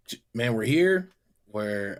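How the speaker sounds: usual speaking voice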